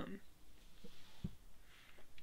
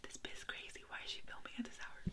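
imitating mom; 14 dB quieter, faster than usual. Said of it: "She's probably like".

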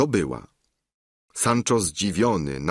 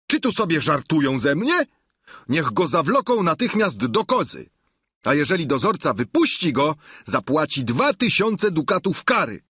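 raised, indignant threats, quicker at the end; irate governor; 8 semitones higher than usual. Acted. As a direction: threaten the jailer with a fine. Sancho grozi karą. (oburzony gubernator, wyżej)

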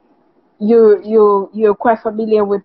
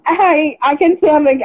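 tearing up; 6 semitones higher than usual. Real, not acted. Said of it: "I feel a bit, um, emotional about it".

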